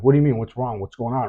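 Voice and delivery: frantic questions down the phone; a retold father's panic. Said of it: "I start panicking".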